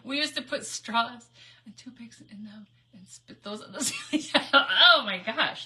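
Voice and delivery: talking through real laughter; laughing. Real, not acted. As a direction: giggle helplessly while reminiscing. Laughing at shared naughty memory.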